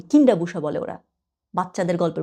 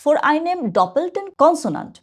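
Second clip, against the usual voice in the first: slow reading aloud; 7 semitones higher, much slower than usual. Shown as a demonstration. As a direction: read the rule very slowly, pitched higher. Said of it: "ওখানে কি লেখা?". (ধীরে ধীরে জোরে পড়ে শোনানো)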